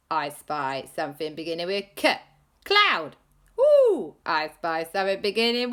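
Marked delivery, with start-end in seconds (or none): 2.6-3.2 high eager guess. Acted. Child guessing in I Spy. 3.6-4.2 high ooh. Acted. Playing I Spy.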